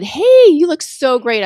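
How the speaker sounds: friendly call-out. Retold or imitated. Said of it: "and I just said".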